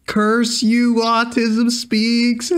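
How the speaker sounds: high, drawn-out theatrical curse; hammed-up high cry of vengeance; mock villain cursing. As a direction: wail it like a thwarted cartoon villain. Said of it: "you threw your hands up in the air".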